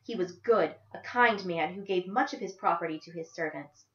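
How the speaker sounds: tight, restrained anger; a hint of clenched jaw; through gritted teeth. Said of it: "Through gritted teeth".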